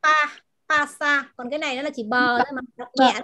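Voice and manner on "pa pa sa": "Pa, pa sa" with a puff of air on each p; aspirated P. Shown as a demonstration. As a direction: demonstrate a breath-released P in "pa sa". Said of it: "cái chợ đó là bật hơi".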